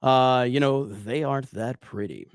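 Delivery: cool, unhurried delivery; lightly done cool calm voice. Shown as a demonstration. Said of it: "real cool, calm, collective".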